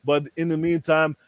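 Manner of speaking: put-on Austrian accent, Arnold style. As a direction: growl it out like the action star. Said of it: "Ask Arnold".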